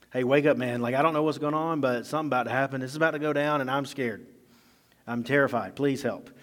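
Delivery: hammed-up scared servant; mock terrified. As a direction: play an urgent plea to wake someone. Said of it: "he is terrified".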